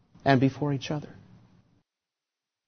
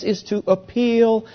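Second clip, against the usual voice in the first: pleading prayer; 3 semitones higher, slower than usual. Acted. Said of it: "he says".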